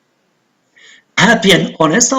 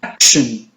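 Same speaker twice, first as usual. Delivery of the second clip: "Action" stressed on AC, the ending light; first-syllable stress; 7 semitones lower than usual. Shown as a demonstration. Teacher showing students where stress falls, "Action" stressed on first syllable. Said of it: "on the first syllable".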